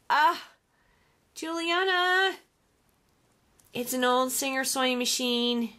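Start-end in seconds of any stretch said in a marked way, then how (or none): 0.1-2.4 awed delight. Real, not acted. Crafter sees her friend's gift, awed delight. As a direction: call the friend's name, thrilled.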